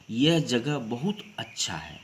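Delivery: अच्छा said as a statement, falling at the end; statement intonation. Shown as a demonstration. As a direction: state यह जगह बहुत अच्छा है, settling down on अच्छा है. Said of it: "सामान्य भाव से किया गया है".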